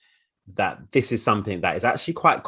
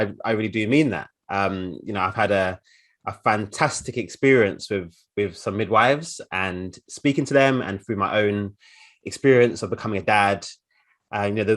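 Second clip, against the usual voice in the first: normal talking voice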